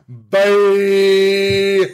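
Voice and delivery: loud, high dismissive bye. Retold or imitated. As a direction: toss off a quick bye. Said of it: "I was like".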